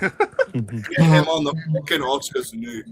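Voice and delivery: slow mock-Scottish; butchered Scottish accent. Friend teasing the Cyclops fan, mock Scottish accent. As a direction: drag out a bad Scottish accent. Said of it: "I'm gonna butcher your accent".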